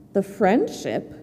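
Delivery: low, soft, slow puzzled reply; gruff little rat. Acted. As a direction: mull the words over like a grumpy rat. Rat answers hedgehog, puzzled.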